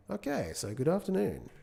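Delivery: a quick, badly faked British accent. Greeting UK viewers in a badly faked British accent. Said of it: "that was a horrible accent".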